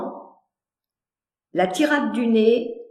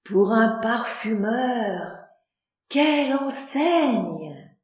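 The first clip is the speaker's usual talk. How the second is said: slow, softly marvelling; admiring; 4 dB quieter, slower than usual. Acted. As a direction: gasp in admiration.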